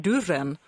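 "dörren" said as "durren"; Stockholm-style "durren" for "dörren". Shown as a demonstration. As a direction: say "dörren" with a u sound for ö. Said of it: "det blir ett u-ljud där".

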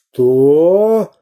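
growled outraged what; furious pirate. A narrator's reading. Pirate Bul-Bul hears the insult, outraged. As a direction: bristle with rage.

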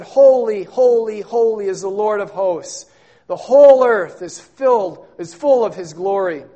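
loud proclaiming call, then settling; ringing seraph cry. Acted. Preacher voicing the seraphim's call, loud and ringing. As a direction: call it out like angels across the temple. Angels calling to one another.

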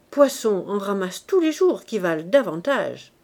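a hint of a cruel neighbour twisting the knife; lightly voiced Virginie. Virginie sneers at Gervaise. (Virginie blesse Gervaise, voix plus forte et méprisante)

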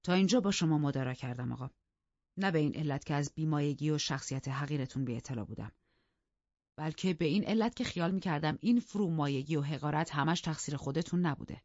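measured, controlled formal address; calm, cold-blooded politeness. Acted. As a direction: keep your anger in check, speak evenly. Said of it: "خیلی آرام گفت".

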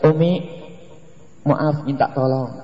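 soft, polite asking; gentle request. Acted. Husband politely asking his wife a favour, gently. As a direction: ask mum kindly, unhurried. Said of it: "Lihat dengan bahasa lembut".

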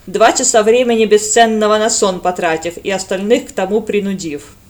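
loud, pompous mock recital; hammed-up official reading; reading aloud mockingly. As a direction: read the report out to ridicule it. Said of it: "зачитывая избранные первые вслух".

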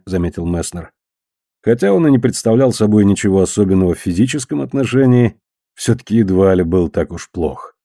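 ordinary delivery, nothing marked

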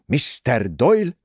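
slow, loud theatrical call; dramatic. A narrator's reading. Mrs Otterborn dramatically addresses Simon Doyle, slow and loud. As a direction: announce it like a stage entrance. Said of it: "szólt drámai hangon".

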